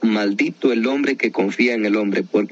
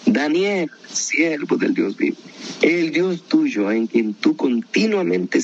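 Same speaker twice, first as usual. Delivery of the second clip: a mild calling cry, raised but mournful; sad calling out; 4 semitones higher than usual. Shown as a demonstration. King calling down into the lions' den, mildly lamenting call. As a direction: call to Daniel in lament, not full volume. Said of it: "el rey está gritando, pero con voz triste".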